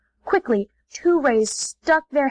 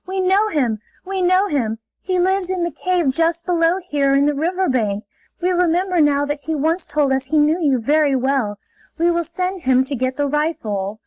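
high, joyful outburst easing down; joyful rays; 4 semitones higher than usual. Acted. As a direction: burst out with glad relief, then settle. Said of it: "gave one great shout of joy".

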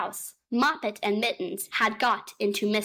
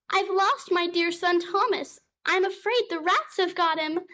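tearful; 8 semitones higher than usual. A narrator's reading. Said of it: "shedding tears".

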